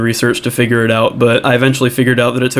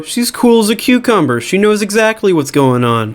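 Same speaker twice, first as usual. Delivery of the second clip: put-on high squeaky girl voice; 6 semitones higher than usual. Becky voiced freaking out.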